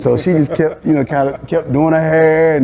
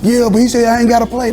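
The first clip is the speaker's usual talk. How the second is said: sulky player; 9 semitones higher than usual. Retold or imitated. Sulking player answers teammate.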